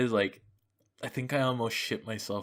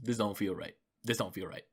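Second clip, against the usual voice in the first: uneasy murmur; 6 dB quieter than usual. Retold or imitated. Retelling feeling sick.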